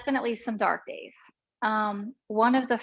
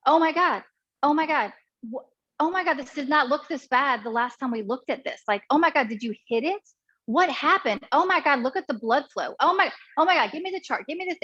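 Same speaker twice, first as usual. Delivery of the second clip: higher-pitched, flustered "oh my God" retelling; imitating frantic doctor; 4 semitones higher than usual. Doctor reacting to the patient's scan, frantic. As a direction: act out a doctor who can't contain herself. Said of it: "the doctor could not contain herself".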